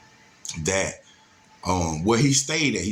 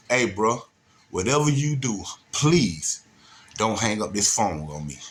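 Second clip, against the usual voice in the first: put-on phone voice. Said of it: "I went into my mode".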